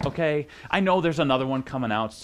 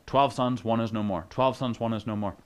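same falling tune each time, trailing lower; rote recitation; 3 semitones lower than usual. Acted. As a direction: repeat it like a memorized line. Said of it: "memorized that phrase in their mind".

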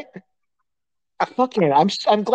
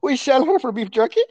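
mock hotel clerk; 3 semitones higher than usual. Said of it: "who talks like this".

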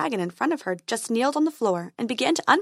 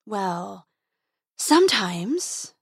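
embarrassed; much slower than usual. A narrator's reading.

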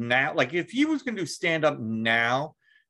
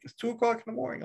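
wife's complaint; 10 semitones higher, 4 dB quieter, much faster than usual. Retold or imitated. Wife voiced in story.

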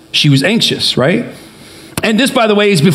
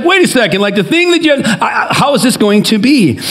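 mock freaking out. Preacher voicing Mary's reply to the angel, mildly freaking out. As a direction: stammer through it as if thrown, playfully. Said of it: "freaking out".

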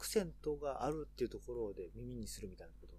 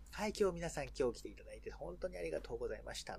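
lightly voiced tour host, higher pitch; mock amiable guide; 5 semitones higher than usual. Imitating Japanese safari guide thanking guests, lightly amiable higher voice. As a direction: put on a mild crowd-pleasing welcome. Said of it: "愛想を振りまいてる感じ".

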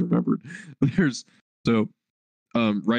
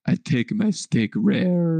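put-on slow, higher Russian-accented voice; Marin's Russian accent; 6 semitones higher, slower than usual. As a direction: imitate a Russian accent, drawn out. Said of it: "in her fucking Russian accent".

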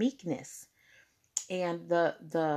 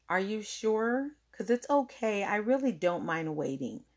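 कोमल, भरोसा देने वाला लहजा; gentle reassurance; 2 semitones higher than usual. Retold or imitated. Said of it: "And I meant that".

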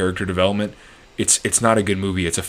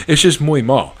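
muy mal laughed out, higher and louder; laughing catchphrase; 5 semitones higher, 6 dB louder than usual. Real, not acted. Host cracking up at his own catchphrase, laughing loud. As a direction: say it while cracking up.

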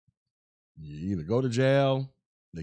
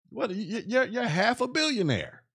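laughing disbelief; 8 semitones higher than usual. Real, not acted. Incredulous about rich player.

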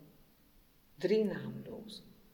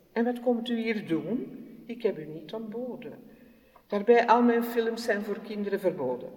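louder, condescending diva; haughty film star; 3 dB louder than usual. Acted. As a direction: wave her off like a vain film star. Film star dismisses her.

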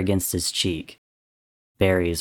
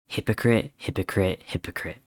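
repeated accusation sinking away to very soft; fading echo; 6 dB quieter than usual. A narrator's reading. Echoing accusation in George's memory.

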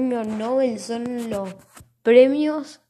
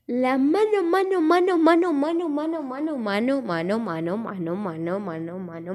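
repeated words fading away like an echo; echo effect; 3 semitones higher than usual. Pretend. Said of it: "¿Por qué dije tantas veces mano?".

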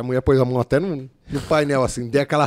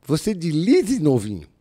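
boss with Cebolinha speech; 2 semitones higher, slower than usual. Retold or imitated. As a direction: tease the rookie in her voice. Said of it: "Ela metia o Cebolinha".

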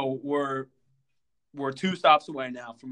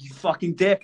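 mock angry insult; 3 semitones higher, 8 dB louder than usual. Woman insults him again.

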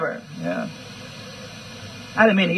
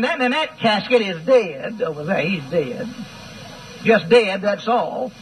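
mock funeral visitor. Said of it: "going to the funeral home and saying".

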